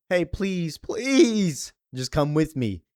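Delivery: high, begging please; pleading. Retold or imitated. Ruthie begging Supergirl to come along, high pleading. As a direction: plead with rising pitch on the second please.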